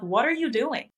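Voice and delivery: high, caring check-in voice; high mock concern. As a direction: playfully nag them to take a break. Boss checking on busy staff.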